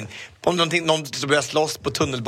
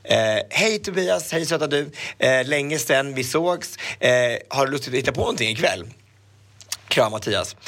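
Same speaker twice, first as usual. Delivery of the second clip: reading text message. Retold or imitated. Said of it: "skrev han så här".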